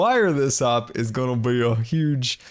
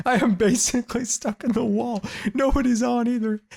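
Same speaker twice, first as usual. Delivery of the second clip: high, pleading whine, stuck in a wall; high-pitched stuck-in-the-wall plea; stuck and whiny; 11 semitones higher than usual. Real, not acted. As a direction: beg for help, much higher.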